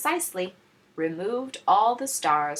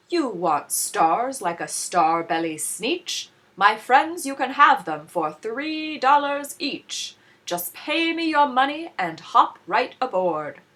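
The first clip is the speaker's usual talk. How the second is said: louder and higher, eager salesman; huckster pitch; 6 semitones higher, 6 dB louder than usual. A narrator's reading. McBean offering stars to the Sneetches, louder and higher. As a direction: reel them in with a grin.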